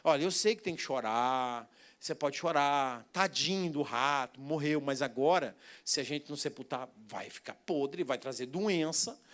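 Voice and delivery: put-on calm a crying child tenderly; father soothing his daughter at the rat's grave, softly; gentle fatherly comfort. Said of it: "Eu falei".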